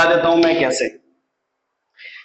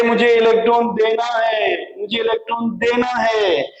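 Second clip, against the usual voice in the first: mock yelling; 2 semitones higher than usual. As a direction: call out as if begging for a taker, stretched. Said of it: "जब ये चिल्लाई". (खींचकर नकली पुकार)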